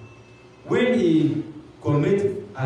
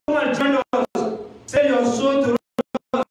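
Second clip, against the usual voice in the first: a lightly voiced Satan, higher and urging; tempting Satan; 6 semitones higher than usual. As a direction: coax him away from God. Demon tempting again.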